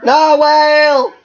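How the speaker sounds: high, eager shouts building to a yell; excited calling. Acted. Wolf calls his friend to see a narwhal, excited shouting. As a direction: call a friend over, bursting with excitement.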